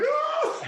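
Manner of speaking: very high comic sob; hammed-up crying "oh"; mock crying wail. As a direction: wail as if bursting into tears. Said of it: "I bust out crying".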